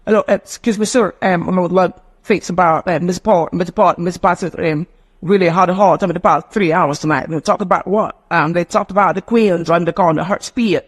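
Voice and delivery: words broken sharply, each one cut short; Queen's English breaking pattern. Shown as a demonstration. Teacher demonstrating breaking pattern, sharply broken words. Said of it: "That is called Queen's English breaking pattern".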